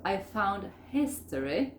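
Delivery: FOUND HISTORY slowly, keeping the D; slow demo with a sounded D in FOUND; D pronounced in FOUND. Shown as a demonstration. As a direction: keep the D before HISTORY. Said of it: "No, la pronuncio".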